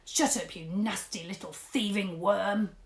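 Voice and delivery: loud bark; roar. Acted. Sergeant roaring at the captured Mister Tugg. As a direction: roar it down at him. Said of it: "roared the sergeant".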